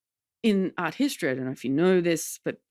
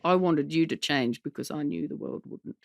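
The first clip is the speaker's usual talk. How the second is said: Mum's voice; 2 semitones lower than usual. Retold or imitated. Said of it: "committing to Mum's voice here".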